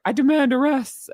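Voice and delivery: lightly mocking Prince Harry's demands; a hint of pompous prince. Mocking Harry demanding things of the police, lightly pompous. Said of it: "I can't do his accent".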